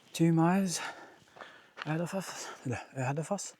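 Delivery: panting while climbing uphill; breathing hard between phrases; heavy breathing. Real, not acted. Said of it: "I'm sorry about the heavy breathing".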